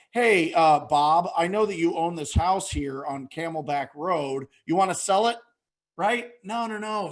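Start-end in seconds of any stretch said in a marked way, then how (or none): 0.1-5.4 louder, brash opener that names the address; blunt pushy pitch. Shown as a demonstration. Coach mocking the wrong way to call a homeowner, blunt and pushy. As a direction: barge in like a pushy cold caller. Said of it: "You don't go".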